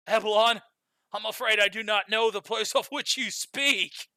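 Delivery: Californian surfer. Acted. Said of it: "Rubicante is going to have the voice of a Californian surfer".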